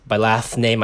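talking through a mouthful of food; words slurred round a bite; mouth full. Real, not acted. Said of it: "Sorry, I'm eating".

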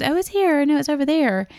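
high, breezy and casual; lightly voiced worker brushing it off; mimicking the worker. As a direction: toss it off like it's obvious. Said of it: "And he goes".

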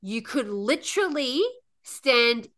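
retold psychotic rage. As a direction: act out seething at strangers in your way. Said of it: "psychotic rage".

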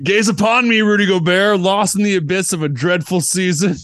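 high, booming croissant voice; eldritch horror. Acted. Sentient croissant speaks to Rudy.

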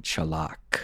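"Chalak" said as chuh-LAHK, stress on the second syllable; "Chalak" pronounced carefully as a foreign word; Afghan word chalak. Shown as a demonstration. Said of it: "the Afghans have a saying".

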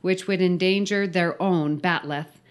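emphatic read-aloud of a silly briefing; story read-out. Acted. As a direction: read the mission briefing with mock importance. Reads the filled-in story aloud.

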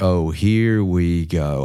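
slow, drawn-out mock exasperation; eye-rolling weariness. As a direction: stretch it out like an imitated eye-roll. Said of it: "they roll their eyes".

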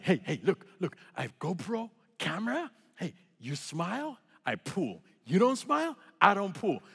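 put-on broken-English accent, halting and choppy; limited-English accent. Instructor trying comedy to lighten the mood, in broken-English accent. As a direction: foreign skydiving instructor's accented, clumsy joke. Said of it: "With the limited lexicon that I have when it comes to English".

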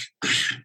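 short sigh before pleading; acted sigh. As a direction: sigh as you gather an explanation. Retold appeal to the director.

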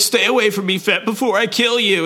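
high, strained threat; threatening Valance. Retold or imitated. Groveling Valance warning Fett off, high and strained. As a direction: snarl it from his knees. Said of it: "He's like".

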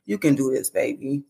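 softly voiced motherly reassurance; tender retold comfort; consoling mother. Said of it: "consoling me, saying".

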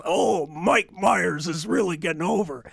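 a hint of a dim promoter; imitating promoter. Promoter Ernie quoted.

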